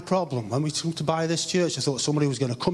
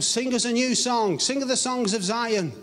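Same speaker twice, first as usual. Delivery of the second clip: taunting; 6 semitones higher than usual. Retold or imitated. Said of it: "they were taunting them".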